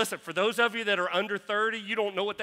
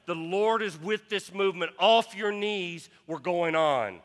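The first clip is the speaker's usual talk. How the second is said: calling the marchers up, a raised shout; retold yell; 3 dB louder than usual. Pastor to kneeling marchers: raised mock yell. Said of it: "he yelled".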